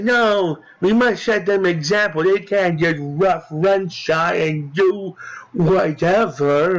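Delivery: hammed-up imitation, pitch swinging up, drawn out at the end; mock refusal. Villain brushes off the pleas to stop, hammed-up mock refusal. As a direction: mimic an overblown, insistent refusal. Mimicking the one who refuses.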